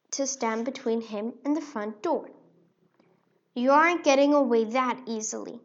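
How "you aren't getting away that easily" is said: taunting mouse. Acted. Mouse blocks the door.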